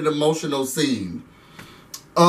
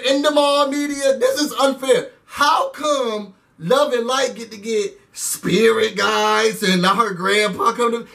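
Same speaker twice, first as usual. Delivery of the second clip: mock whiny complaint; 7 semitones higher than usual. Mocking a jealous houseguest's complaint.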